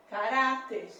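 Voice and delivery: caráter settled firmly on "rá"; stress on middle syllable. Shown as a demonstration. Teacher confirming the answer, caráter stressed on "rá". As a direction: land on the "rá" of caráter. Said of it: "Caráter leva acento".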